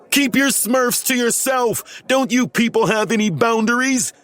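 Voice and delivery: outraged little Smurf complaining; indignant shout. A narrator's reading. Smurf fleeing grabbing kids, indignant and high. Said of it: "he shouted as he ran for cover".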